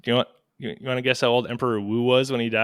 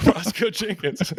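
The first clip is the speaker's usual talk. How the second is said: high, slow drawn-out Southern cousin; a jokey Southern drawl on the name Roscoe Jenkins, pitched high; 9 semitones higher, slower than usual. Pretend. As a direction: say the name like a good old boy from back home. Playful echo with a cousin voice.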